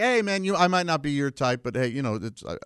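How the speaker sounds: mock friendly. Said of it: "when I do that to a heckler".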